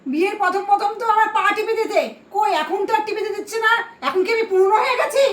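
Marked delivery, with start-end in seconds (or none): 2.3-5.2 mock sobbing. Wife sobs to her husband about being forgotten. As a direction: sob the question, hammed-up.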